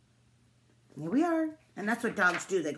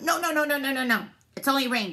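informing duck; 5 semitones higher, 4 dB louder, faster than usual. A narrator's reading. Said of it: "Duck informed them".

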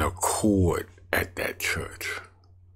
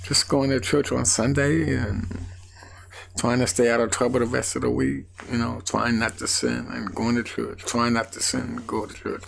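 frustrated complaint; 7 semitones higher than usual. Retold or imitated. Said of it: "because I was like".

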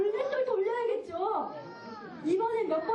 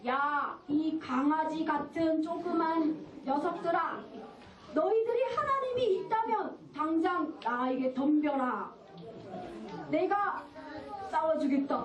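lightly voiced taunting giant; 2 semitones lower than usual. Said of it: "그러면서 막 욕을 하는 거예요".

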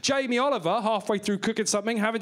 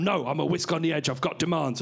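lower, surly whisk character; mock kidnapper, pitched down; whisk hostage-taker; 4 semitones lower than usual. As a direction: play a whisk making demands. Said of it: "He's there going".

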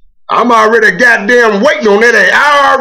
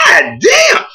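shocked exclamation; 8 semitones higher than usual. Retold or imitated. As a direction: gasp it out in disbelief. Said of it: "I'm like".

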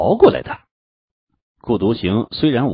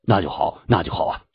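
relieved; 3 semitones lower than usual. Acted. Sect leader hears the fish is safe, relieved. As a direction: settle down with relief, slightly lower voice. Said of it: "乌云良松了口气".

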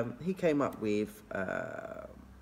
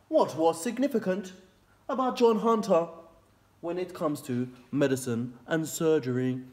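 reading the question; 5 semitones higher, 4 dB louder than usual. Real, not acted. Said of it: "what it says is".

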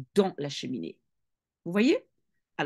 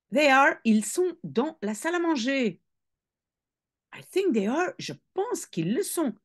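father's voice; 5 semitones higher than usual. Acted. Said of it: "le père disait".

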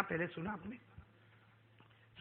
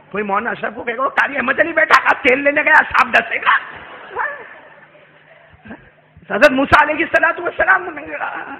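loud preaching; 9 semitones higher, 14 dB louder than usual. Acted. Preaches loudly to crowd.

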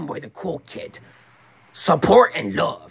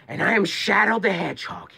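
Shadow voice; 3 semitones higher than usual. Acted. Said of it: "practicing to do a shadow voice".

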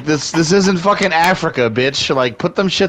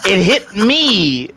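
drawn-out indignation. Real, not acted. Indignantly explaining a freak hit.

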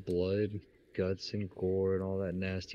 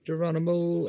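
playful battle cry; 9 semitones higher, 5 dB louder than usual. Pretend. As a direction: call it out like a leap into battle. Battle cry while jumping in game.

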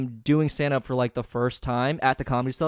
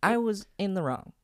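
Aziz impression; 6 semitones higher, 4 dB quieter than usual. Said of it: "Can you do Aziz?".

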